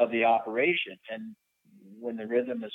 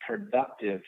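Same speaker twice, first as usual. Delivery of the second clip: "productive" set apart by pauses before and after; stress on productive; slower than usual. Real, not acted. Pilot explaining smooth air operations, stressing "productive". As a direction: lean deliberately on "productive" as the key word. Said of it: "I emphasize the word productive".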